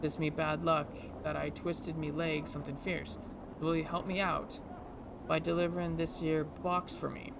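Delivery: lightly put-on Scottish-Irish brogue; game character with a loose Scottish-Irish lilt; Scottish-Irish accent. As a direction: plead for a favor in a mild Scottish-Irish accent. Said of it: "almost like a Scottish Irish accent".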